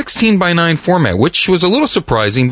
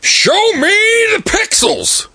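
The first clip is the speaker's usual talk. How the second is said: excited shout; slower than usual. Real, not acted. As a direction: demand it with glee. Excited exclamation.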